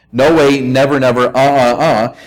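"No way, never, never" in firm separate beats; emphatic refusal. Acted. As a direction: stress each "never" as a refusal. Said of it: "It's a very emphatic no".

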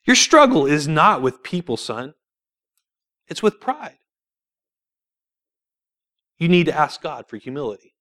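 imitating mom's simple, unbothered verdict; understated motherly correction; matter-of-factly. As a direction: state it simply, as plain fact. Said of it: "So matter-of-factly".

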